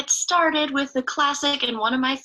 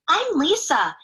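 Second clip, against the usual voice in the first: put-on little girl; 6 semitones higher than usual. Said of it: "she said".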